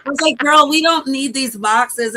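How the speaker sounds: squealing through laughter; laughing. Real, not acted. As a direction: laugh the words out high. Laughing while retelling.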